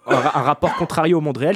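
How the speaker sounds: talking through a laugh. Real, not acted. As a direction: chuckle while speaking. Laughs while rephrasing his point.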